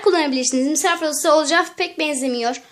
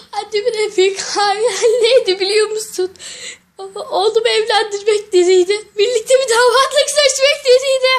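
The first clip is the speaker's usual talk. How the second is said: crying; 3 semitones higher than usual. Acted. Ken cries over his mother.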